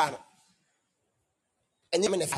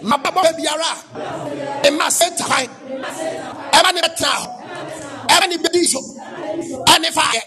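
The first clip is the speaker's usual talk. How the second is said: preaching at full force. Acted. Shouted deliverance declarations.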